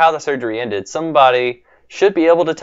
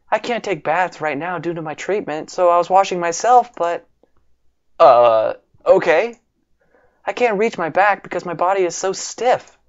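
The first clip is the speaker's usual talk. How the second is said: lightly voiced shy sick girl, a bit higher; 4 semitones higher than usual. Sakura asking Brandon to wash her back, shy girl voice. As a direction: voice the patient girl gently, a touch higher.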